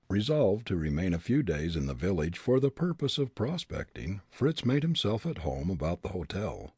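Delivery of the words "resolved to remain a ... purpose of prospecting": plain reading voice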